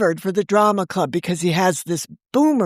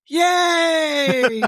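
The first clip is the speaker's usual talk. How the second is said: high cheering yay, shouted; real excited shout of yay; 7 semitones higher than usual. Real, not acted. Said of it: "And now I'm so excited".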